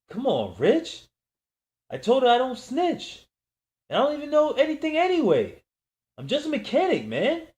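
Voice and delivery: high, loud, rushed begging; a mechanic begging armed men he knows nothing; desperate pleading. Acted. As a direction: plead for your life. Begging gunmen not to shoot.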